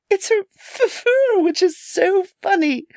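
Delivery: put-on high, giggly young girl; a light mocking giggle in the voice; kid giggling. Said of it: "giggled the girl".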